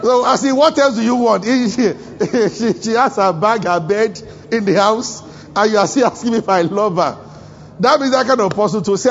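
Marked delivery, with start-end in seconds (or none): 0.5-7.2 indignant husband. Retold or imitated. Husband's indignant reply acted out.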